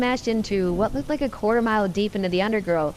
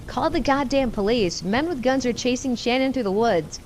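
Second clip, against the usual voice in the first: raised, urgent mock scream, not full force; screaming to roommate; 3 semitones higher than usual. Narrator calls roommate for police, restrained urgent yell. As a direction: push it out like a panicked yell, held back. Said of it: "I screamed at the top of my lungs".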